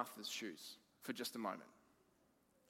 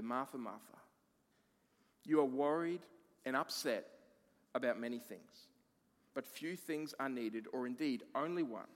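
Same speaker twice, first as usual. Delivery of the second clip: tender and gentle. Retold or imitated. Jesus gently answering worried Martha. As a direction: soothe her like a caring friend. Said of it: "very tenderly and very gently".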